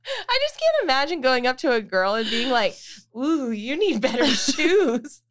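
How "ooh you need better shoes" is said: shady mock hostess. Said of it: "that's so shady".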